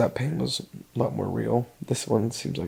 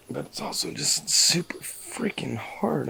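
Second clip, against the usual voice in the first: choked, whispered through tears; tearful whisper; 4 dB quieter than usual. Real, not acted. Admitting leaving is hard, tearful whisper. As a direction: barely get the words out, slowly. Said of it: "getting so emotional".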